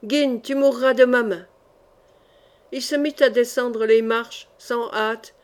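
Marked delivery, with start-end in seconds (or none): 0.0-1.5 cried out. Acted. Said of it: "Il cria".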